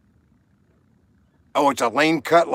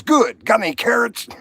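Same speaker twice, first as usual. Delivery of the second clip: higher, perky rabbit asking sweetly; cheeky rabbit voice; 10 semitones higher, 4 dB louder than usual. Acted. Joke teller voices the rabbit asking the butcher, high and cheeky. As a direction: pitch it up like a pushy little rabbit.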